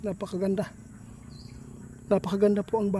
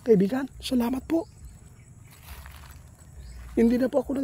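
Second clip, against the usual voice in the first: respectful polite voice; 5 semitones higher than usual. Real, not acted. Polite address to unseen spirit friends.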